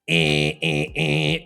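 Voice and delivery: harsh hockey buzzer eh; buzzer sound. Shown as a demonstration. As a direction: imitate a goal buzzer. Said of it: "imitate the sound when somebody scores a goal in a hockey match".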